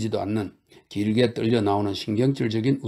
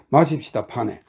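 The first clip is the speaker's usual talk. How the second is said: blurted out; 3 dB louder than usual. Acted. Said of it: "이런 말을 불쑥 내뱉었다".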